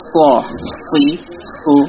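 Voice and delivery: স, সি, সু with a thick, heavy Arabic sad. Shown as a demonstration. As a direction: fatten the s in স, সি, সু. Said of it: "সেক্ষেত্রে ওটা মোটা হবে". (স, সি, সু মোটা সদের উচ্চারণে)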